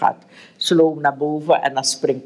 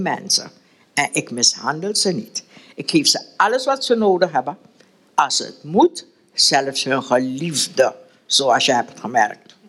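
reading a novel aloud to the group, voicing the characters; steady read-aloud narration with mild character voices; story reading. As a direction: tell it like a storyteller, lightly acting each figure.

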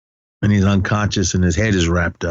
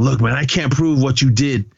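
mildly raised retold warning; higher-pitched mock warning; veiled threat; 5 semitones higher than usual. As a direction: lightly act out a veiled threat. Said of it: "Basically just threatening him".

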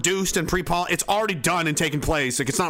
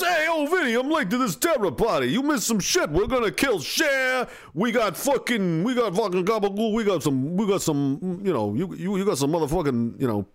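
tough guy voice. Pretend. Voicing a mafia-style guy.

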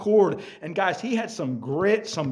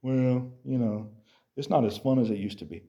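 mock lazy excuse; 4 semitones lower, 3 dB quieter than usual. Mocks a quitter's excuse.

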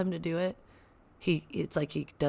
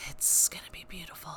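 whisper; 5 dB quieter than usual. Real, not acted. Excited whisper about son skating.

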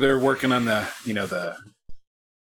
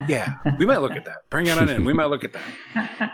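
eager mechanic; 5 semitones higher than usual. Retold or imitated. Imitating mechanic's sudden interest.

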